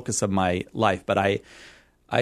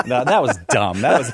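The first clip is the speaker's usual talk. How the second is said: laughing; 2 semitones higher, 4 dB louder than usual. Real, not acted. Laughs at own remark.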